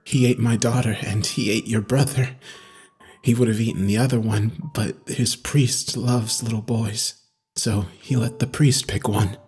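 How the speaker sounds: low, soft voice with a touch of crying; tearful inmate. A narrator's reading. Crying inmate telling his therapist about his daughter, subdued. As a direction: grieve quietly in a deep character voice. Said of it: "Michael was crying".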